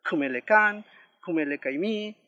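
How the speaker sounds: "Kumelekan, kumelekaimi" given as separate example words; word-variant demonstration. Shown as a demonstration. Teacher lists variants for learners, careful pronunciation demo. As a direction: subtle sixth vowel after K in "Kumelekan, kumelekaimi". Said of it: "Las distintas variedades que tiene".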